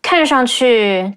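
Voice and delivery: 看上去 with toneless 上 and longer 去; light middle, long ending. Shown as a demonstration. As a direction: skim 上, stretch 去 in 看上去. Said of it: "make the ending sound a little bit longer".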